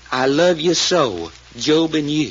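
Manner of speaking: slow, lightly pleading quote; retold pleading. Witness quoting Cherry's sweet words, retold pleading. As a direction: draw out the pleading words, imitating her. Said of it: "in a kinda pleading voice".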